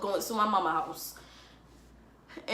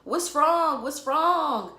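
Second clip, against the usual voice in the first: high, loud worried "what's wrong"; anxious best friend pleading; frantic friend; 8 semitones higher, 7 dB louder, much slower than usual. Retold or imitated. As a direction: mimic the panicked friend asking over and over. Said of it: "She's like".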